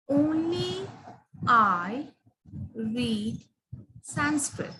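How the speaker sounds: slow, word by word, "Only" lifted; stress on only. Shown as a demonstration. Teacher reading out a model sentence, word by word. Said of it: "if I say".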